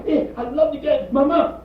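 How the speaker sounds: a lovestruck son gushing; mock lovesick son; infatuated young man. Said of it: "the first time a man see the girl".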